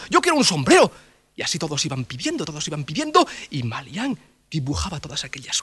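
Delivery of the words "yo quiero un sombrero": villager voice. Acted. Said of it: "Y otro dijo".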